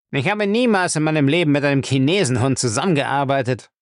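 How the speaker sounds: mildly defiant, indignant refusal; rebellious. Acted. Lacey refuses his master's order, rebellious. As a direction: refuse as if insulted. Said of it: "Lacey war in aufsässiger Stimmung".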